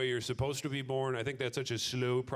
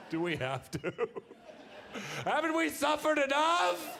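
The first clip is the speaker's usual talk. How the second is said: much higher, louder, slow mock whine; whining student; 3 dB louder than usual. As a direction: beg like a suffering schoolkid. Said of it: "I'm like".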